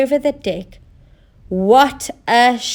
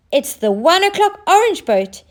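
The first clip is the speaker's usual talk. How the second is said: excited cry; 7 semitones higher than usual. Acted. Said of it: "he cried".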